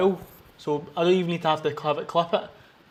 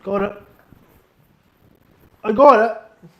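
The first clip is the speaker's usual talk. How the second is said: triumphant; 4 semitones higher, 8 dB louder, slower than usual. Real, not acted. Lifting a heavy set.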